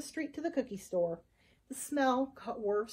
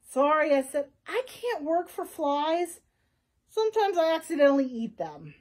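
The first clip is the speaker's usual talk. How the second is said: Flytrap voice; 3 semitones higher, 5 dB louder than usual. Acted. Flytrap declining fly.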